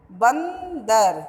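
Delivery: बंदर said very slowly with the ं sounded through the nose; nasal demo word. Shown as a demonstration. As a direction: stretch बंदर, humming the nasal ं. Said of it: "तो नाक से वायु बाहर आ रही है".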